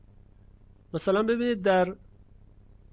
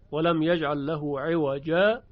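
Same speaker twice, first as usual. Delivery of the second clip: slow recitation, stopping after عوجا with no breath; pause of sakt; slower than usual. Shown as a demonstration. Teacher demonstrates sakt to students, slow halting recitation. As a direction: recite عوجا then halt briefly. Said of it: "اینجا رو سکت میاریم".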